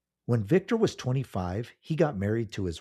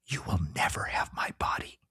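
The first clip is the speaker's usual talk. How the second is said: hushed defiant whisper; 3 dB quieter than usual. Acted. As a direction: breathe it out in a whisper. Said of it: "he whispered the words".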